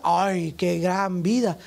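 imitación lenta y burlona, más grave; burla. Pretend. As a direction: remeda con sorna a la gente de redes. Burla de la gente en redes. (el pastor se burla de las apariencias, lento y burlón)

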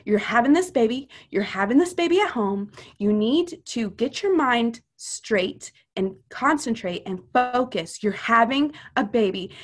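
retold firm pep talk with punched key words; stern, direct. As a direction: imitate a friend giving stern, direct orders. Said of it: "needed to be stern with me".

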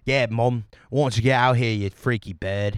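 British lad shooing his mom away; mock-irritated British teen; British accent, fending off a nosy mum. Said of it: "That character I was playing was a British person".

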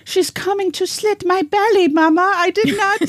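put-on high, pleading little girl; scared child voice. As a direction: beg Mama in terror. Frightened child in acted quote.

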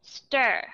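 "stir" with a full er vowel; clear ER syllable. Shown as a demonstration. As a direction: sound out "stir" distinctly by itself. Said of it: "âm thứ nhất".

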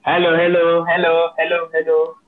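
choppy, breaking call audio; glitching audio. Real, not acted. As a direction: voice cracking up on a bad line. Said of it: "your voice is glitching out a little bit. It's cracking".

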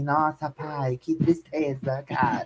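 lightly voiced carioca accent, slow; a hint of a carioca drawl; Jade Picon carioca accent. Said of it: "Com sotaque carioca". (leve sotaque carioca imitado)

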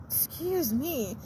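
talking through hiccups; speech broken by hiccups. Real, not acted. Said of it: "I've got the hiccups now".

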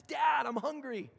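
put-on high, loud, drawn-out child's whine; little son. Son Judah calling to his dad, a high loud whine. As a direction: play the kid who won't sleep. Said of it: "out comes my son Judah".

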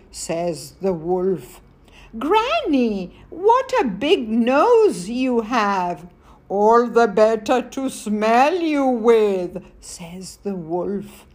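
put-on reading aloud to children; story narration. A narrator's reading. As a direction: tell the fairy tale gently to kids.

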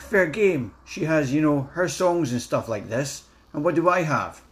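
his joke in a put-on Scottish accent. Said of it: "I'm gonna do it in my best Scottish accent".

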